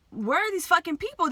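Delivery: alarmed shout at the crowd; panicked outcry. Retold or imitated. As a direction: cry out in panic for someone to come. Panicking at drowned kid.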